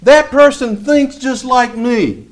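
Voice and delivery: lightly voiced self-satisfied reader; a hint of smug delight; imitating believer. Preacher mimics a listener pleased with a book, lightly smug. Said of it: "you've probably heard this one".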